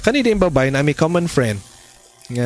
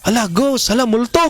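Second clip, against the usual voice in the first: mock frightened cry; 7 semitones higher than usual. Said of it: "nangahadlok ang mga disciples".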